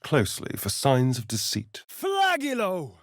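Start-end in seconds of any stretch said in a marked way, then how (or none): 1.9-3.0 high, slow drawn-out spell cry; chanted spell word; spell incantation. Acted. Character casting a spell.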